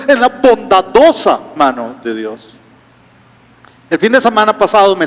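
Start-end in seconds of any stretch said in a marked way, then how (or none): 0.1-2.5 bondadosa slowed and leaned on as the correction; slow corrective stress on bondadosa. Shown as a demonstration. Preacher corrects himself, slow stress on bondadosa. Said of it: "no en la mano de Dios".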